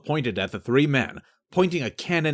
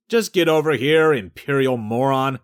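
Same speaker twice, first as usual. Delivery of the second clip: impatient shout; 3 semitones higher, 5 dB louder than usual. Acted. Shouting across at the boat.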